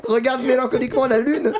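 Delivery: can't keep a straight face telling it; giggling through the punchline; laughing while telling. Real, not acted. Telling absurd scene, cracking up.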